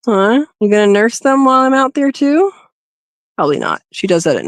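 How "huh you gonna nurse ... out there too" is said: teasing pet talk. Real, not acted. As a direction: tease her like a pet. Teasing the rabbit directly.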